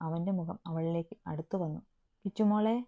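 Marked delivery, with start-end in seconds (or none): 2.2-2.7 a louder call from another room. A narrator's reading. Daisy calling Krishna from the kitchen, raised voice. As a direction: call her name across the house.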